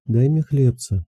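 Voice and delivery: high, slow begging plea; beggar's voice. A narrator's reading. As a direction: plead slowly like a beggar woman. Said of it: "сказала голосом нищей".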